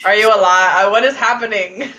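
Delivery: loud, half-laughing disbelief; playful exaggerated concern; mock alarm. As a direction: demand it as if baffled by a late text. Acts alarmed reaction to late text.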